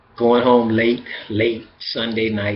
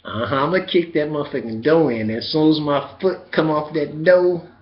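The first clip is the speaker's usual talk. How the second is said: pumped-up inner voice; 3 semitones higher, 4 dB louder than usual. Retold or imitated. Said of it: "now I'm thinking".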